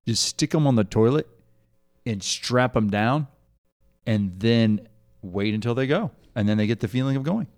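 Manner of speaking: a hint of a gruff old grandfather laying down the law; grandfather's advice. Grandson retelling grandfather's potty advice, lightly voiced old man. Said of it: "He goes".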